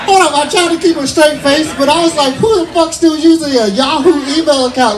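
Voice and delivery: high-pitched comic disbelief; incredulous rant. Acted. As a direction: voice climbs high, appalled and baffled. Incredulous rant about Yahoo email.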